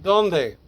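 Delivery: dónde punched on the O, falling away after it; stress on first vowel. Shown as a demonstration. Teacher demonstrating the accent, dónde stressed on the O. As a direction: hit the O of dónde. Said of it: "The first vowel after the consonant".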